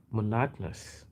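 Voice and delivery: monotonous with stress on the second syllable; American monotonous. Retold or imitated. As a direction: say mo-NO-to-nous, American style. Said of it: "she was like".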